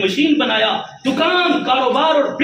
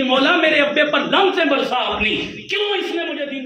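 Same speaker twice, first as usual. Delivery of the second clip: put-on an angry child crying out to God; cursing child; 4 semitones higher than usual. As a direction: shout the child's accusation. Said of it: "اولاد قیامت والے دن کہے گی".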